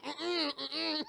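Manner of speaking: high laughing hums. Real, not acted. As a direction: giggle through closed lips. Laughing-crying hum.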